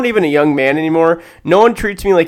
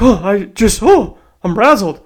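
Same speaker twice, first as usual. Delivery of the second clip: hammed-up dizzy old lady, pitched up; mock frazzled lady; 4 semitones higher than usual. Old lady after bumping the machine, mock frazzled. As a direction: imitate a flustered old woman. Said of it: "acting dizzy".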